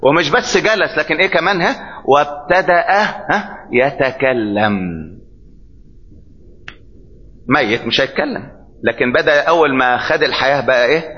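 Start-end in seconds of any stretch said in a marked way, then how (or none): 3.7-5.1 low, very slow and drawn out; preacher answering his own call, low and slow. Acted. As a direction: stretch يتكلم out low like a revelation.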